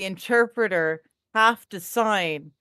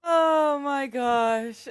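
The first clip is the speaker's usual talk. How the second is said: stretched laugh; 5 semitones higher, much slower than usual. Real, not acted. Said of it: "laughing reaction".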